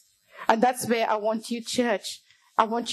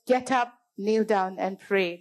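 understated, even voice of God; calm inner voice; 2 semitones lower than usual. Retold or imitated. God's voice calling a man in bed, calm and understated. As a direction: give the call calmly, without force. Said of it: "the voice came saying".

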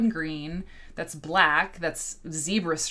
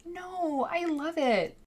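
high, put-on sweet gushing; fake enthusiasm; 12 semitones higher, slower than usual. Imitating someone whose face says otherwise, falsely gushing. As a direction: gush in a high, insincere voice. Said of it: "mouths pointing down".

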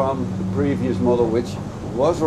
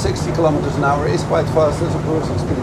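louder, projecting over engine noise; raised voice; 3 semitones higher, 5 dB louder than usual. Real, not acted. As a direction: talk up over a speeding boat. Reviewing boat at speed over engine.

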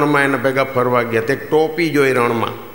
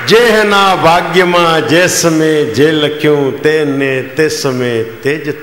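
slow moral; slower than usual. Acted. Closing moral of the joke.

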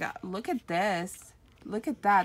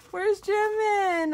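mock panic; 12 semitones higher, 6 dB louder, slower than usual. Real, not acted. Searching the page for Jimin.

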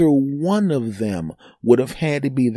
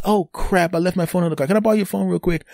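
higher, light woman's voice; quoting the officer; 7 semitones higher, faster than usual. Retold or imitated. To him, asking to borrow his phone, higher voice. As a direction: mimic her sweet request. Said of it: "And she goes".

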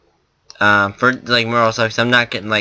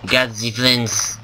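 slow mock German accent; stereotypical German accent; much slower than usual. Gamer showing viewers the accent he busted out, stereotypical German accent. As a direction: stretch the words in a hammed-up German accent. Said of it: "the stereotypical German accent".

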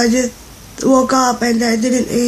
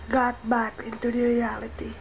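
whispering; 11 dB quieter than usual. Real, not acted. Sick vlogger drops to whisper.

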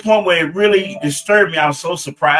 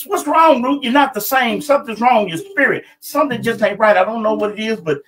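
lightly voiced worried husband, higher; a husband pleading with his wife, pitched up; husband's voice; 4 semitones higher than usual. Husband questions his troubled wife.

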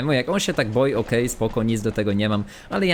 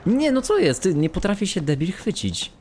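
much higher, frustrated cry; exasperated outburst; 9 semitones higher than usual. Real, not acted. Streamer fails to grab the ledge, high exasperated outcry. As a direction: throw it up in disbelief at the game.

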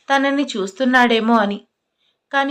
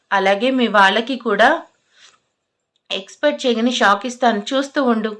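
mildly heated, determined challenge; serious. Acted. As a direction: vow it firmly, as if taking up a challenge. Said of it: "Vikram serious అవుతూ".

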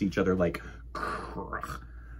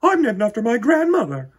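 put-on high, loud snooty girl; stuck-up schoolgirl, much higher and louder; boastful girl; 13 semitones higher, 10 dB louder than usual. A narrator's reading. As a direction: brag to the whole class. Victoria boasts.

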